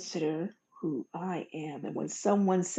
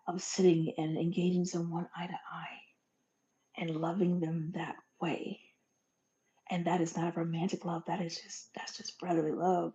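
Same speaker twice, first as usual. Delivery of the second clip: tender whisper; 3 dB quieter than usual. Real, not acted. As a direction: speak it gently, almost in a whisper. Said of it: "tender point about love".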